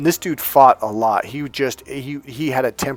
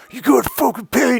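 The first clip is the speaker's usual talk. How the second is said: high, loud mock bouncer yell; imitating a yell; 12 semitones higher, 4 dB louder than usual. Bouncer yelling at him to pay, imitated high and loud. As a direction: bark it like an angry bouncer. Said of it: "he starts yelling at me".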